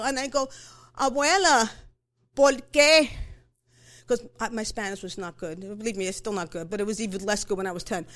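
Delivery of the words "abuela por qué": put-on louder, plainly a girl pleading "Abuela, ¿por qué?"; upset child calling out. Girl in tears asking her grandmother why, raised voice. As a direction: play a ten-year-old crying out to her grandmother.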